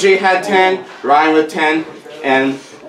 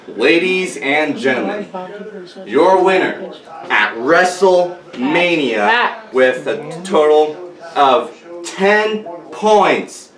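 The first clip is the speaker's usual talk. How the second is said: booming pumped announcer; 3 semitones higher than usual. Acted. Announcing the winner, hyping up.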